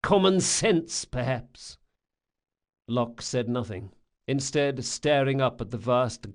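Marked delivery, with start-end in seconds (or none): 0.0-1.8 higher character voice for a thief-maker; a hint of the thief-maker, higher than the narration; lightly voiced thief-maker. A narrator's reading. Thief-maker needling young Locke, lightly voiced in a higher pitch.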